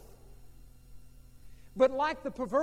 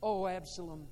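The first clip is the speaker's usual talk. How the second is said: grief spilling out then draining away; crying aloud; slower than usual. Acted. The king covering his face and crying for Absalom, anguished fading. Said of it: "cried aloud".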